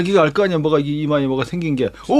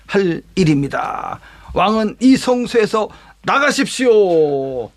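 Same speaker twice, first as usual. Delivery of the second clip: slow, measured, higher-pitched priestly appeal; high priest urging the king to leave, slow and solemn; slow solemn plea; 4 semitones higher than usual. Acted. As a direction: lay each word down firmly and slowly.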